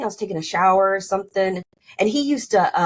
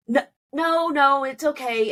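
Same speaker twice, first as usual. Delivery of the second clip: high, quick imitation of the husband backing off; husband telling his wife not to come, squeaky mock dismissal; 7 semitones higher than usual. Husband brushing off her offer.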